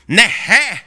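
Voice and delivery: loud, delighted disbelief; amazed exclamation. Retold or imitated. Missionary reacting to the Albanian girl, loud surprised exclamation. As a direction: burst out in surprise. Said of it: "då blir han".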